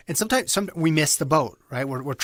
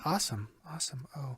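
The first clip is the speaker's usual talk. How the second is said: telemarketer voice; 2 semitones lower, 12 dB quieter than usual. Shown as a demonstration. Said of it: "you sound like a telemarketer".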